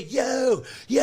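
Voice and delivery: repeated high calls; shout across room. Retold or imitated. Stranger at the palace calling to him, shouting. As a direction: keep hailing him from a distance.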